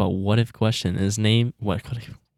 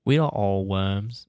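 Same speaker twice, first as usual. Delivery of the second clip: slow, drawn-out British statesman impression; Winston Churchill; much slower than usual. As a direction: intone it slowly like a grand orator. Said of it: "Winston Churchill".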